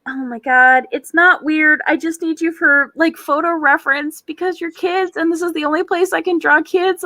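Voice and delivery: put-on nervously defending herself to the kids; mock panicked pleading. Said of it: "I'm like".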